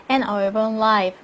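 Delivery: slow fall on "life", then stop; full pause at end. Shown as a demonstration. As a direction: close the list on "life" and rest. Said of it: "문장 끝났으니까 두 번 쉬시고요". ("life" 뒤에서 충분히 쉬기)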